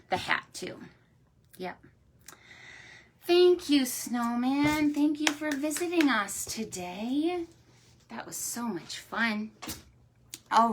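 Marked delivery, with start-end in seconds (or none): 3.3-7.4 high, sing-song thank-you; cheery thanks. Real, not acted. Storyteller thanking a snowman visitor for children, high cheery sing-song. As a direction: thank them in a high, lilting voice.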